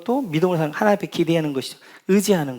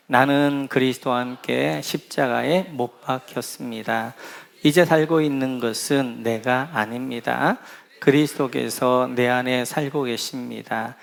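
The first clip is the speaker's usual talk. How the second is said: slow, steady reading of a Bible verse; scripture reading; 3 semitones lower, slower than usual. Acted. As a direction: lay out each phrase slowly and evenly. Reads Galatians together, slowly.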